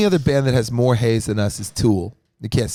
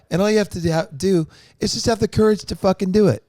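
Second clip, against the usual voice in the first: fired up; 9 semitones higher than usual. Real, not acted. Pep talk about stage courage.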